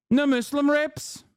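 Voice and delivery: sing-song Norwegian lilt, rising as it goes; mock Norwegian accent. Streamer mocking a Swedish chatter in a Norwegian accent. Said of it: "I'm doing a Norwegian accent".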